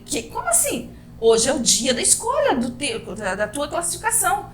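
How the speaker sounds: high, breathless disbelief; retold panic. Teacher hearing she missed her exam day, panicked and high-pitched. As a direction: relive the panic of missing the date.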